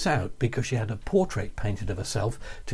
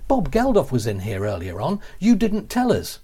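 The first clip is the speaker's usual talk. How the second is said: retold receptionist's outraged reproach; indignant complaint; 3 dB louder than usual. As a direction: play the receptionist scolding him, slowing on the last words.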